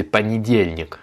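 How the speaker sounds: понедельник as pa-ni-DYEL-nik; unstressed vowels reduced. Shown as a demonstration. Teacher summing up the rule, понедельник said pa-ni-DYEL-nik. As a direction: turn O and YE into A and I in понедельник. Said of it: "se prononcent A et I".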